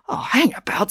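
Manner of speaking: high, mildly flustered objection; spluttered protest. A narrator's reading. Mister Lang interrupting Brad, mildly spluttering. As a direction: butt in with a touch of alarm. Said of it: "spluttered Mister Lang".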